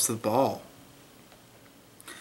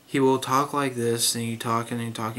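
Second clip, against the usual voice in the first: low, level mock narrator drone; imitating audiobook narrator; 3 semitones lower than usual. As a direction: lightly mimic a narrator talking along evenly. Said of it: "he does weird things in this performance".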